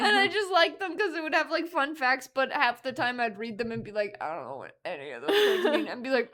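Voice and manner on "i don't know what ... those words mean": put-on confused kid. Confused child voice.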